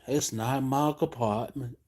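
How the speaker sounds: imitating a bored worker's brush-off; mock worker reply. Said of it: "If I hear that one more time".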